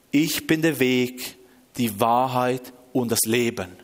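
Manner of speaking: slow, measured divine pronouncement; voice from heaven. Retold or imitated. Audible voice answering the desperate man, slow divine pronouncement. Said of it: "eine akustische Stimme, wirklich ganz laut".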